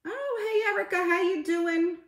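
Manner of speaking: very high, sing-out hello; high-pitched greeting. Real, not acted. Streamer greeting a viewer who just arrived, high-pitched hello.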